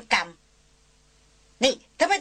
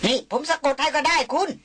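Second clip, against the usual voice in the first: shouting; 4 semitones higher, 3 dB louder than usual. Acted. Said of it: "เสียงเชิดบุตรตะโกนมา".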